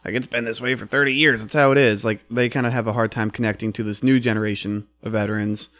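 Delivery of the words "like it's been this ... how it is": lightly voiced set-in-his-ways old vet; a hint of a grumpy old-timer brushing things off; mildly imitating a stubborn old veteran; crusty old veteran. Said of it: "kind of the crusty old veteran that is set in his ways".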